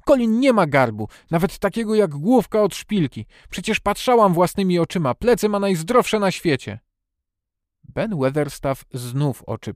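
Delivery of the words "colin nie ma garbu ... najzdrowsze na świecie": high, loud, outraged defence; indignant girl, insisting; indignant shouting. A narrator's reading. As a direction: argue hotly at a high pitch. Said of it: "krzycząc z oburzeniem".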